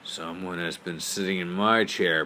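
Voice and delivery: a lightly voiced big bear; Papa Bear's big voice. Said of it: "in his great big voice".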